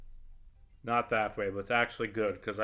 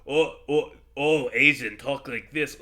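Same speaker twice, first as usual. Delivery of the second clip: mocking a racist TV Asian accent, louder; mock stereotype accent; 2 semitones higher, 7 dB louder than usual. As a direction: parody the lazy Asian accent joke with disgust. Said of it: "stereotypical accent thing".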